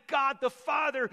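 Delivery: normal talking voice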